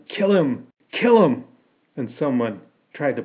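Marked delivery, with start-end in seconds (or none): 0.1-1.5 mob baying for a kill; raised, high yell, building on the repeat. A narrator's reading. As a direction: yell it like one of an angry crowd. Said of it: "Some of the men were yelling".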